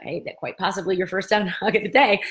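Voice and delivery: giggling mid-quote at the teacher's line; laughing through quote. Retold or imitated. Retelling the yoga teacher's joke, cracking up. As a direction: break into a laugh on dog. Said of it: "just cracking up".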